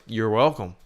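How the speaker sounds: a mild, dry sarcastic "You're welcome". Shown as a demonstration. Showing a friend how sarcastic he sounds thanking people, mildly sarcastic. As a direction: let a light edge of sarcasm into "You're welcome". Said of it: "I feel like I'm being sarcastic".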